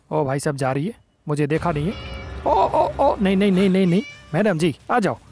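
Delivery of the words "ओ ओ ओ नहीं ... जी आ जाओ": startled panic. Real, not acted. Caught by teacher, cries out.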